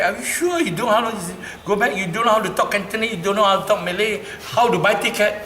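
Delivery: high, loud worried questions to his mother; anxious questioning. Retold or imitated. Son anxiously quizzing his mother about travelling alone, high and loud.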